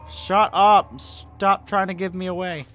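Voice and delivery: high, loud outburst easing slightly; exasperated scolding. Real, not acted. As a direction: yell at whoever is giving you away. Scolds game noise revealing him.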